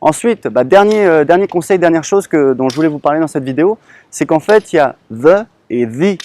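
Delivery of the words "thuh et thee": first "the" as "thuh", second "the" as "thee"; two pronunciations of "the". Shown as a demonstration. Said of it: "avec une prononciation différente". (« the » dit « theu », puis « thi »)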